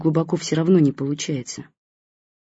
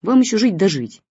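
a touch of cross scolding, a little louder; mild anger; 5 dB louder than usual. Acted. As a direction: tell him off half-fondly. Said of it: "рассердилась мама".

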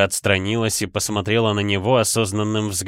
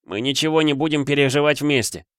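decisive; 6 semitones higher than usual. A narrator's reading. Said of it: "решительно отрезал он".

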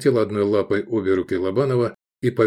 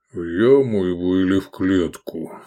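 sullen giant. A narrator's reading. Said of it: "осведомился Киклоп угрюмо".

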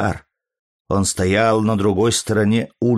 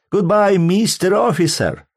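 very high, loud happy farewell; relieved old man shouting goodbye from the car; cheerful shout; 11 semitones higher, 3 dB louder than usual. A narrator's reading. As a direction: call it out gleefully as the car pulls away. Adams calls goodbye leaving.

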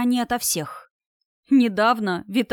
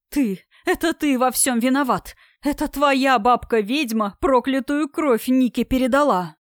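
accusing wail; 3 semitones higher, 3 dB louder than usual. Acted. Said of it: "причитала мама на всю площадь".

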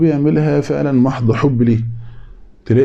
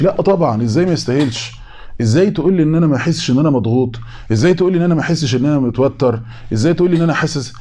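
1 mock agitated protest; 4 semitones higher, faster than usual. Mock stressed person protesting.

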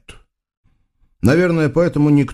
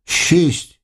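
spoiled sultan; 6 semitones higher than usual. Acted. Sultan counting days.

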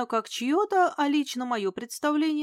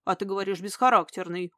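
reproachful; 3 semitones lower than usual. Acted. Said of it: "укоризненно сказал он".

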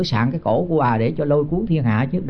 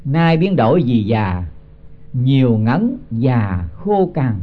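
slow, measured chant of the verse; slow scripture chant before explaining it; slow verse recitation; much slower than usual. Acted. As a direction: intone each syllable like scripture. Recites verse line slowly.

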